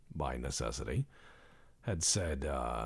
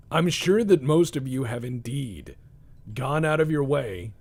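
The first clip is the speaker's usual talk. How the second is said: mock oration; 7 semitones higher, 9 dB louder than usual. Mock oration to viewers about Taco Tuesday.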